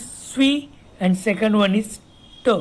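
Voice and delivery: "swe" and "t" each said apart; split into sounds. Shown as a demonstration. Teacher showing two sounds in sweet, split apart. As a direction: give "swe", then a lone "t" as second sound. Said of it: "there are only two sounds".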